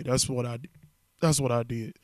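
talking through hiccups; words broken by hiccups. Real, not acted. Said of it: "I got the hiccups now".

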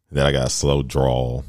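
showing off a mild slow drawl; slow, drawn-out Southern telling. Shown as a demonstration. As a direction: let the words stretch a touch. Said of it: "Like, I talk slow".

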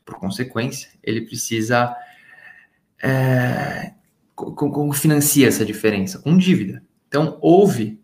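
words echoing as if in a big hall. Real, not acted. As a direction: voice with heavy room echo. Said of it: "o pessoal tá falando que tá com eco aqui".

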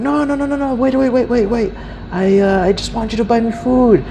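high, rapidly repeated imitated pleas; mock desperate begging; pleading beggar. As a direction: plead in a high voice to stop someone leaving.

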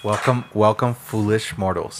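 low, slow haunted house greeting; a hint of a creepy theme-park host; spooky ghost host. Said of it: "that's actually a Disney sign".

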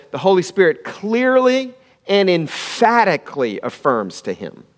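clearly and emphatically leaned on; stressed scripture words. Shown as a demonstration. Preacher stressing the verse to the church, emphatic. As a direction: give weight to "clearly" and "emphatically". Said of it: "the Bible says".

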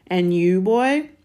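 put-on loud bark rising high on boy; stern challenge. A narrator's reading. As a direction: fire it sharply at the boy. Uncle challenges nephew sharply.

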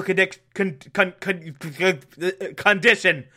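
mock stutter stuck on con-; tripping over condition; stammering. Shown as a demonstration. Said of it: "I know words. I can talk".

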